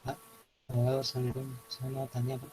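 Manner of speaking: faint, distant-sounding voice; small quiet voice. Real, not acted. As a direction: speak small and faint, far from the mic. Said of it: "Mas, suaranya kecil banget". (suara kecil dan pelan)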